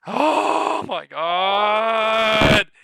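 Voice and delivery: long, drawn-out loud high cry; excited shout. Real, not acted. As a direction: stretch it out in thrilled disbelief. Big price jump on screen.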